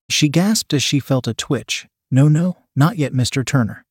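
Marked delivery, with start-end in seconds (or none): 2.1-3.8 chiding. Acted. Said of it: "she chides".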